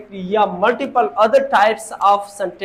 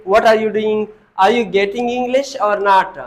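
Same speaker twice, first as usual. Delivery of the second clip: louder, demonstrating an Indian English accent; 3 dB louder, much slower than usual. Shown as a demonstration. Teacher demonstrating Indian English pronunciation to students, a mildly put-on Indian accent. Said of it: "Indian pronunciation is that".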